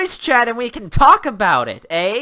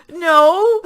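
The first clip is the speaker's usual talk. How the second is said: loud flat no; 8 semitones higher, 6 dB louder than usual. Real, not acted. Answers the hype flatly.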